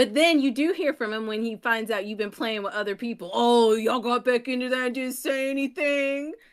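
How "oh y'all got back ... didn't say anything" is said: aggrieved, complaining voice airing a grievance. Teasing a friend who drops games, mimicking a friend's complaint. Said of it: "Pretty good impression".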